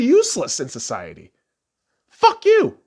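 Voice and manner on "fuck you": angry shout. Real, not acted. Ranting at critics.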